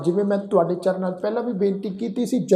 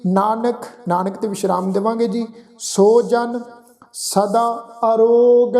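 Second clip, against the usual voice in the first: slow, devout chanting, each phrase drawn out; gurbani recitation; 2 semitones higher than usual. Acted. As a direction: chant the verse with reverence.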